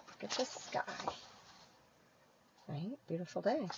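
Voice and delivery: hushed, whispered pointing-out. Real, not acted. Teacher aside to children.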